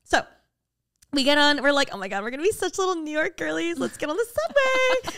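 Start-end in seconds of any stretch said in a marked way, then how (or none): 1.9-5.2 high, giddy mock-tourist squeal; mock girly excitement. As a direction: gush like a thrilled city girlie. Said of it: "being completely facetious right now".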